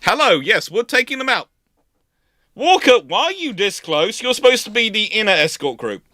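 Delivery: professionals scolding an intruder; Black Swan voice. Retold or imitated. Sloops telling Walker off for crowding them, mock officious. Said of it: "Black Swan class sloops sitting there going".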